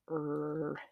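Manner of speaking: half-hearted computer plug-in noise; poor plugging-in noise. Retold or imitated. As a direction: imitate a computer plug-in sound badly. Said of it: "That's not a good impression".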